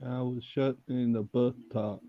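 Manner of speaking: slow, measured film impression; Forrest. Trading film quotes with friend, slow mock-earnest impression. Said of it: "it based that character on".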